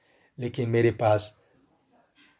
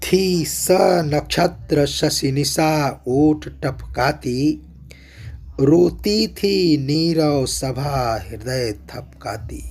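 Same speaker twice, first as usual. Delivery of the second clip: slow, measured verse reading; poem recitation; 2 semitones higher, slower than usual. Acted. Poet describing the weeping silent assembly, slow recitation. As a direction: let each image settle slowly.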